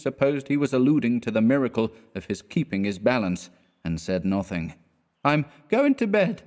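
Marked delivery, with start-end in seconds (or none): 5.2-6.4 much higher, proud tipsy declaration; drunk announcement. A narrator's reading. Drunk Clifford announces bedtime to his friend, high tipsy. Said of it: "he announced".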